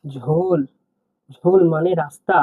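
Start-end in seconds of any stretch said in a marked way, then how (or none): 0.0-0.6 ঝোল said slowly and clearly, soft; teacher saying ঝোল for the class; word demo. Shown as a demonstration. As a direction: model ঝোল for students to copy. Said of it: "এখানে দেখুন".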